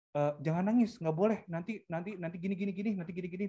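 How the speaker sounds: lightly acted nagging; mock parental scolding. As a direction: imitate a parent forbidding a child, rattling off threats. Imitates parent forbidding crying with threats.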